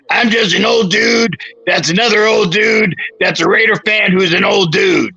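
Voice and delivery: high, shouted movie-montage parody; Robert Downey Junior. Retold or imitated. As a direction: call it out high, spoofing a film line. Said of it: "a montage from Robert Downey Junior".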